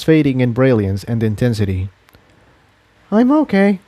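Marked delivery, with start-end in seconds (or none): 3.1-3.8 absent murmur. Acted. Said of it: "Tiptoe murmured absent-mindedly".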